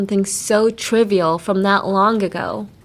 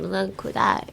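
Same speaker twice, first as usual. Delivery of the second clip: soft whiny lovey-dovey "kudai"; 猫なで声で甘えて; cutesy baby voice; 6 dB quieter, much faster than usual. Shown as a demonstration. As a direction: coo it like a clingy girlfriend. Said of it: "猫なで声ですよ".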